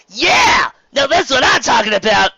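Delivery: high, loud delighted shout; excited cheer. Acted. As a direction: cheer it out, thrilled. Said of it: "he grinned".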